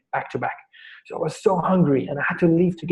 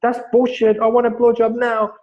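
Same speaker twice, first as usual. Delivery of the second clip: much higher, mock-whiny insisting voice; demanding brat; 8 semitones higher than usual. Trainer mimicking himself demanding from the receptionist, mock whiny. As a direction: play a spoilt child who won't take no. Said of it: "I was like".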